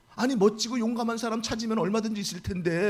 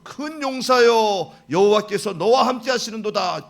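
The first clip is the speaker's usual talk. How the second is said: loud, slow, commanding call; booming slow divine declaration; God's proclamation; 10 dB louder than usual. Retold or imitated. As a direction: proclaim it like God from above. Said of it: "딱 이러는 거예요".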